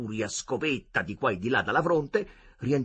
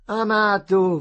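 laughing it off, much higher and louder; a laughing jab at a friend; high amused outburst through a laugh; 11 semitones higher, 11 dB louder, slower than usual. A narrator's reading. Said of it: "fece ridendo Marcello".

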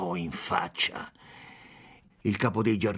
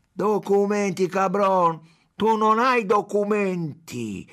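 much higher, louder, scornful retort; mocking shout; 8 semitones higher, 5 dB louder, slower than usual. A narrator's reading. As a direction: throw his demand back at him. Chief mocking consul's demand.

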